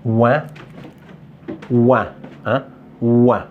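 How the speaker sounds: «ouin» isolé, en une syllabe /wɛ̃/; répéter «ouin» comme un modèle, entre des pauses; son «ouin». Shown as a demonstration. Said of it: "les syllabes avec le son". («ouin» détaché, prononcé /wɛ̃/)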